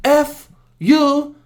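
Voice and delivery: very slow, high, loud letters; mock fury, each letter dragged out; mad, spelling it out. Old Asian guy cursing across the steam room, mad. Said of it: "the Asian guy got so mad".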